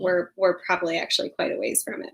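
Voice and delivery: quick hushed whisper; whispered aside. Real, not acted. Rueful aside about the pandemic.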